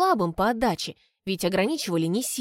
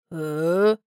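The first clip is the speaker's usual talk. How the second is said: surprised grunt; 3 semitones lower, 4 dB louder than usual. A narrator's reading. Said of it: "прокомментировал удивлённый Тео".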